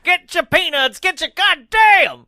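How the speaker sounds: high, loud peanut vendor holler; stadium vendor hawking. Pretend. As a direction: hawk peanuts to the empty stands. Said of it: "Peanut Man".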